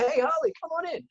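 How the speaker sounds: very high-pitched mock-friendly greeting; fake best buddy. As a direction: imitate a two-faced pal calling out a welcome. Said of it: "now it's your best buddy".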